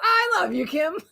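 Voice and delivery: high-pitched, breaking into laughter; laughing affection. Real, not acted. Host to friend Kim over shared pizza habit, laughing. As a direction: say it through a delighted laugh.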